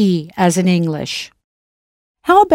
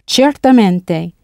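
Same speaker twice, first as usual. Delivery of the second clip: slow, self-assured quoted agreement; drawn-out mock self-assurance; no hesitation or modesty; slower than usual. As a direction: imitate an immodest, sure answer. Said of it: "with no hesitation or modesty".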